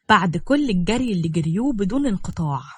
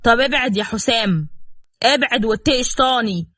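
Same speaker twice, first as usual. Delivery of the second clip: threatening; 3 semitones higher, 3 dB louder than usual. Acted. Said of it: "وقال بتهديد".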